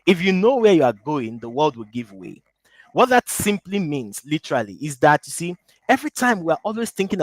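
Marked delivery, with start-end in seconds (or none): 0.1-2.4 slow and deliberate, each word set apart; slow, over enunciating. Shown as a demonstration. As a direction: spell the saying out carefully. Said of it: "Let me say it slowly".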